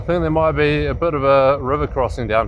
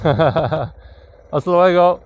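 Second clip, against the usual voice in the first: slow drawn-out farewell; 4 semitones higher, much slower than usual. Real, not acted. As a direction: stretch the goodbye out slowly.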